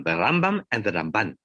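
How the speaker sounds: Rambam stressed on the first syllable, Ramban on the second; name stress contrast. Shown as a demonstration. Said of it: "Ramban gets the stress on the second syllable and the Rambam gets the stress on the first syllable".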